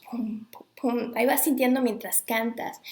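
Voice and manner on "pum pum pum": drum beats. Shown as a demonstration. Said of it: "sientes como los tamborazos".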